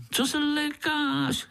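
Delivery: slow, high, laughing question. A narrator's reading. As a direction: tease through a laugh. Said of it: "rozesmál se Pišta".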